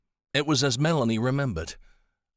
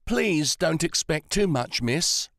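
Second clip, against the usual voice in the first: orderly; 7 semitones higher, slower than usual. A narrator's reading. Orderly warning Melanie.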